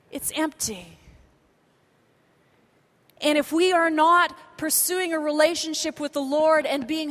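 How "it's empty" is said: hushed. Acted. Quiet drop after repeated empty.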